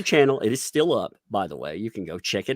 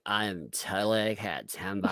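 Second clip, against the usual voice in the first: mock vocal fry; 6 dB quieter, slower than usual. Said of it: "she speaks like".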